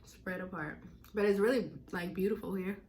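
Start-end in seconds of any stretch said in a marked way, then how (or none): none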